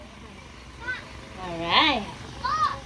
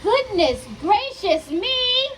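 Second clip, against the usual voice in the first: slow, fussy hen exclaiming; a lightly voiced worried hen; 4 semitones higher, 4 dB louder than usual. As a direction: cluck it out like a flustered hen. Hen Hattie voiced in story.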